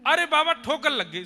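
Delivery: high, loud, hammed-up yelp as if stumbling; child pretends he tripped, calling out in mock alarm; fake cry of pain. Little Krishna fakes a stumble to his father, mock loud alarm. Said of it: "ऐसे नाटक कियो जैसे ठोकर लगी".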